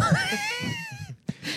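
big sneeze into the mic; sneezing. Real, not acted. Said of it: "Sneezing into the mic".

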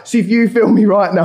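lightly voiced older relative; a hint of a put-on bloke's voice; put-on older man's voice. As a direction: imitate the older man asking a favour. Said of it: "I'm not gonna keep doing the voice".

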